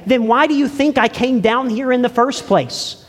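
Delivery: Jesus speaking. Acted. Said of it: "then he would say".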